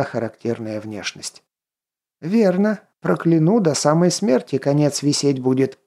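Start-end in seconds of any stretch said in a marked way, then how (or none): 2.2-5.8 high, mock-menacing old witch; witch threat. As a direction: threaten like a cackling crone. (угрожающая старая ведьма)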